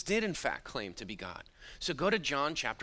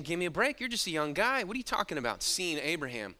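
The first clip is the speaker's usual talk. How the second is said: scoffing disbelief; 3 semitones higher, faster than usual. Retold or imitated. Paraphrases the leaders' scoffing reply.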